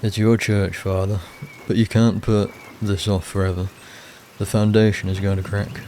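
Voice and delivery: pressing the point in a put-on northern accent; firm, lightly voiced northern accent. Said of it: "giving everyone, like, a northern accent".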